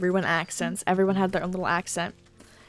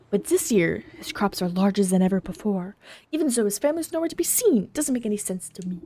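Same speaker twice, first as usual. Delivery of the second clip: suspicious rival farmer. Acted.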